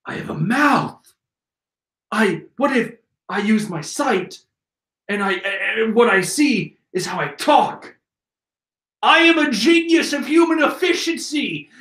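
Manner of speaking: halting, dopey put-on voice; mock dim-witted minion. Minion discovering his own mouth, mock dopey voice. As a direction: puzzle it out haltingly, then proclaim proudly.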